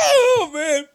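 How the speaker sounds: sputtering through spilled water; laughing while spitting out water; spitting out a drink. Real, not acted. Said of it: "Oh, I just spit water all over the place".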